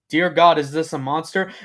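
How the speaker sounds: alarmed question, loud on the opening words; racing panicked thoughts. A narrator's reading. Filly wonders about the stranger in the cave, alarmed. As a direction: panic starting to rise, not yet screamed. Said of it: "her mind racing with".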